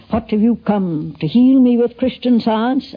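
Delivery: slow, put-on Irish accent; imitated Irish accent. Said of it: "he had his accent".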